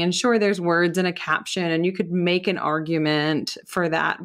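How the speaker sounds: normal talking voice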